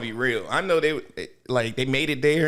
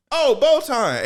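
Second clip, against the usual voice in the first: mock greeting; 9 semitones higher, 5 dB louder, slower than usual. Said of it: "He was like".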